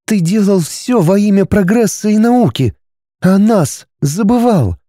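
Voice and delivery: wife reproaching husband, hurt; wife Arani, hurt. A narrator's reading. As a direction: sadly remind him of the family. Wife Arani voiced higher.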